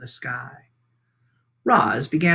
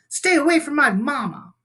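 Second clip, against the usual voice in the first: protective shout; 12 semitones higher, 4 dB louder than usual. Acted. Gosling defends his robot mother.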